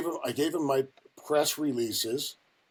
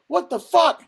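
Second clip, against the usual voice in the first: incredulous high-pitched shout; retold outraged yell; 9 dB louder, slower than usual. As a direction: imitate a boss exploding as he reads. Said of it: "He's yelling at me".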